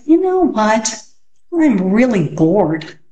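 lightly voiced bored boy, slow end. Peter slumped in a chair telling his sister, bored. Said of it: "Peter, slouched in a chair, said".

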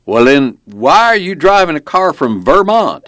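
loud, high-pitched belligerent cop. A narrator's reading. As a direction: demand it like a suspicious small-town cop. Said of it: "his belligerent tone was clear".

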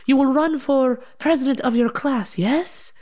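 high, slow correction, then a questioning yes; imitated insistent dad. Dad corrects his grand plan.

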